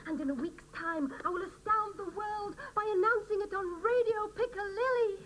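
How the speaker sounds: lightly mock news-report read; reading her news story. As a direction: try out the scoop like a broadcast. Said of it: "How does this sound, Julia?".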